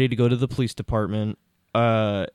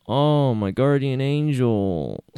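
slow, flat line reading; bad acting; much slower than usual. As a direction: deliver it slowly with no feeling. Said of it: "literally delivers the line like that".

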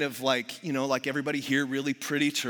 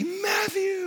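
very high, drawn-out squeal; mock-excited teacher singling out a child; gushing teacher call. Repeats teacher's loud greeting.

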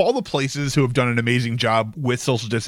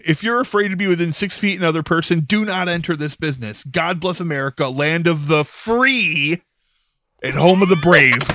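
mock sign reading; 3 semitones higher than usual. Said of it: "It then says".

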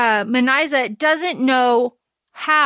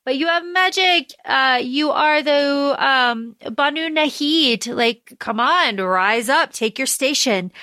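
hyped-up sister; 3 semitones higher than usual. Retold or imitated. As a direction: pump him up. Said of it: "Nari's like".

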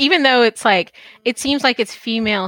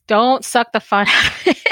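quoting herself with a laugh breaking through; laughing self-quote. Retold or imitated. Host quoting her own motto, laughing. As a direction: replay your own line, laughing at it. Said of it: "I'm like".

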